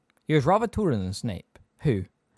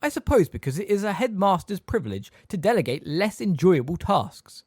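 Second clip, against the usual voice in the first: high, measured silky disdain; 8 semitones higher, 6 dB louder than usual. A narrator's reading. Snape explains being given the job, silkily. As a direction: deliver the slight with oily polish. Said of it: "said Snape silkily".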